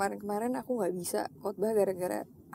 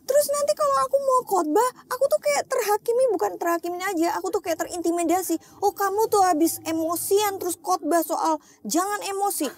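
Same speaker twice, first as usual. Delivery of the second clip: much higher, louder, tearful plea; tearful prayer; 8 semitones higher, 3 dB louder than usual. Retold or imitated. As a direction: cry it out to God. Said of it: "nangis, nangis, nangis". (doa sambil menangis, nada jauh lebih tinggi dan keras)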